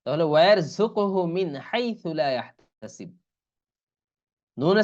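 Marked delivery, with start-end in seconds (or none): 0.3-3.1 slow, measured tajweed reading; Quran recitation. Shown as a demonstration. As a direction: recite the verse with careful vowels. Teacher recites the verse. (ধীরে তাজবিদসহ তিলাওয়াত)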